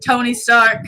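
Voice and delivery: monotone celebrity-house announcement; mock tour patter, trailing down; bored tour guide. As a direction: recite it like a weary guide. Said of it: "sounded like a bored tour guide".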